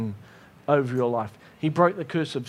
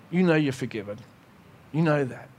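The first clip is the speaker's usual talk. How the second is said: calm reassurance; 4 semitones lower than usual. Acted. God reassuring him.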